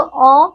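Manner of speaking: अ held as an open "aw", between आ and ओ; English ऑ vowel. Shown as a demonstration. Teacher introduces vowel of English loanwords to children, open "aw" sound. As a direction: round अ midway from "aa" to "o". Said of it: "आ और ओ के बीच की ध्वनि".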